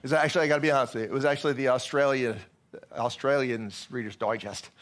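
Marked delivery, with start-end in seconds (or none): 2.9-4.7 slow, badly faked Australian accent; horrible Australian accent. Shown as a demonstration. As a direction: attempt a hammy Australian accent, drawing it out. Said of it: "That's a horrible accent".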